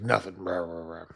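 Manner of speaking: mildly upset grumble, imitated; retold sulky brush-off; grumbling. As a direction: grumble it off, trailing into mock muttering. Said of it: "grumbling, a little upset".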